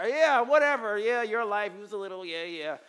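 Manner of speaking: high, loud brush-off that fades out; dismissive teen. Retold or imitated. Teenage son brushing off his father's advice, dismissive. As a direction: wave him off like a bratty kid.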